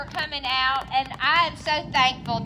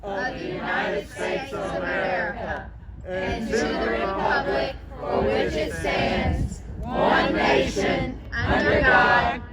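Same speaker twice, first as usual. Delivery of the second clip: solemn, earnest group recitation of the pledge; pledge recited with conviction. Real, not acted. Rally crowd reciting the pledge, earnest and solemn. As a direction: say every word like you mean it. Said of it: "say it like you mean it".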